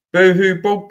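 sing-song jeer at a crybaby; mocking fake crying sound; mock boo-hoo. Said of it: "I'm gonna say boo-hoo to you".

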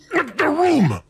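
exasperated outburst. Acted. Exasperated at the user.

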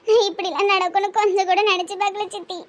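subdued crying confession; tearful. Acted. Niece confiding regret to her aunt, tearful. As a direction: speak through held-back sobs. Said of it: "அழுவாதம்மா".

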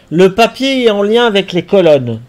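excited realisation. Real, not acted. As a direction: blurt out the discovery. Sudden realisation of the puzzle.

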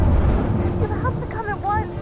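insistent demand. Acted. Sister demands brother come home.

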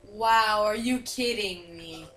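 slow, drawn-out amazement; awed. Real, not acted. Player taking in the view from the mountain, awed. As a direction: stretch it out, sinking low in awe.

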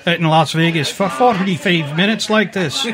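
put-on Scottish accent. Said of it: "a wee bit Scottish".

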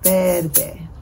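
Verde as two beats, Ver-de; syllable by syllable. Shown as a demonstration. Teacher counting color syllables, Verde in two beats. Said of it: "las sílabas de los colores".

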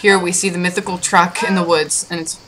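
hushed wildlife narrator; nature documentary. Pretend. Mock wildlife narration of truck.

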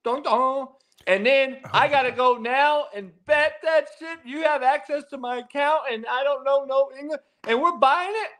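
lightly voiced mock accent confession; a hint of a put-on accent, played for laughs; light mock Asian accent. Interpreter confessing, in a light mock Asian accent. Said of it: "he's gonna come out and say".

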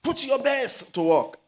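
high, loud, slow charge to work; exhorting call. Real, not acted. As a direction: drive the point home. Preacher exhorting the church.

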